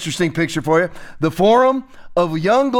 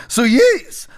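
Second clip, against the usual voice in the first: Jacinda Ardern; 4 semitones higher, 3 dB louder than usual. Retold or imitated. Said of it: "That's how she talks".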